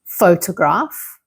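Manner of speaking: photograph slowly, stressed on PHO; slow model photograph, beat on PHO; first-syllable stress. Shown as a demonstration. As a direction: lean on the opening of PHO-tograph. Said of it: "the stress is on the first part".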